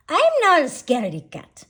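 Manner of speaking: high, loud protest of an offended kitten; indignant retort. A narrator's reading. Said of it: "hissed the gatito".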